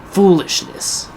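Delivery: slow breathy whisper. Pretend. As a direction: whisper it slowly, ominously. Repeated in hushed voice.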